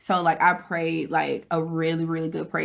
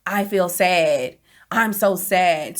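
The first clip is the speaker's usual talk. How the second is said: slow, louder mock sadness; hammed-up slow sadness; mock sad; 3 dB louder, much slower than usual. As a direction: drag it out like a self-pitying moan. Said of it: "I've been saying".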